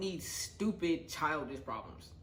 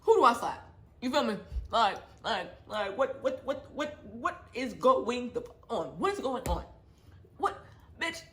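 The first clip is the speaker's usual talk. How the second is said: high, loud frantic questions; ranting at the viewers, high and loud; exasperated outburst; 7 semitones higher, 4 dB louder than usual. Real, not acted. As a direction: sputter in outrage. Disbelief, who to slap.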